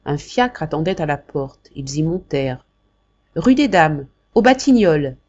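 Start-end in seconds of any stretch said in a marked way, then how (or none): 3.4-5.2 louder call to the coachman; calling to the driver. Acted. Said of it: "cria la mère Jacques".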